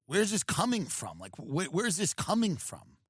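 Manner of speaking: a touch of a gentle negotiator; mock gentle talk-down. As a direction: counselor pleading with the man holding fire. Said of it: "it's kind of interesting being like".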